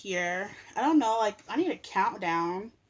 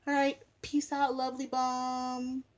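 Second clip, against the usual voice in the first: higher, bright sign-off; cheerful goodbye; 6 semitones higher, 4 dB louder, slower than usual. Real, not acted. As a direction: wave them off playfully. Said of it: "cheerful sign-off".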